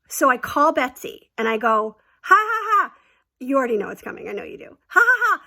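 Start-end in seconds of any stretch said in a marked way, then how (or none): 2.2-2.9 high, loud put-on laugh "ha ha ha"; a hammed-up giggle to tease; fake laugh. Fake laugh on phone to friend. 4.9-5.4 high, loud put-on laugh "ha ha ha"; a hammed-up giggle to tease; fake laugh.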